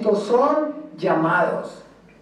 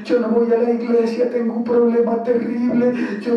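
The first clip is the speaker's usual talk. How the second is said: imitación burlona de un lamento lloroso; quéjate al pastor fingiendo sollozos; llanto imitado. Acted. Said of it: "Están pasando por pruebas y a llorar". (lloriqueo fingido)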